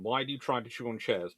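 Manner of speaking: ordinary talk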